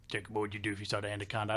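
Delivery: fast, lightly imitated country voice; deep country coworker. Imitating the coworker asking every time, deep country voice. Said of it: "he had a real deep down low voice".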